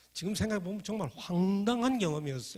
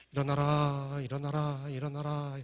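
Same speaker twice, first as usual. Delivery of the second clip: brisk chant like a quick bell; quick bell rhythm; slower than usual. Shown as a demonstration. Preacher demonstrating the wake-up bell, quick chant. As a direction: rap it out fast like morning bells. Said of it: "조금 빨리 쳐야 됩니다".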